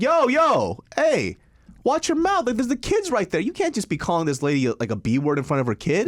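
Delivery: calling her out. Retold or imitated. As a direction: step in and tell her to watch her mouth.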